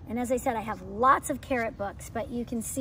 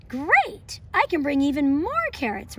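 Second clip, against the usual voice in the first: delighted to bring more carrots; smiling and excited; 3 semitones higher, 5 dB louder than usual. Acted. Teacher reading as Rabbit offered a bigger house, smiling and excited. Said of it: "Rabbit said with a smile".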